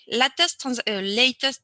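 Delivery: English words with a French accent. Real, not acted. Apologising host reads out a screen label, French-accented English. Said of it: "désolé pour mon accent anglais".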